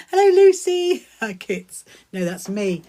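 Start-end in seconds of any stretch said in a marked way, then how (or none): 0.1-1.1 high, loud hello to a newcomer; bright-pitched, projected greeting; delighted greeting. Real, not acted. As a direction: call out a big welcome. Greets viewer joining the live.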